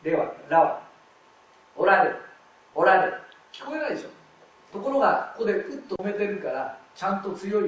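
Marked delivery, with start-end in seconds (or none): 1.7-3.1 おられ with ら loud and held back; pressed ら. Shown as a demonstration. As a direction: push out the ら in おられ firmly. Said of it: "出してみるとわかる".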